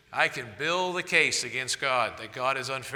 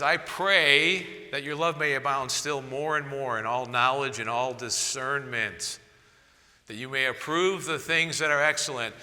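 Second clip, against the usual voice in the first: scripture reading. Acted. Reads Philippians verse aloud.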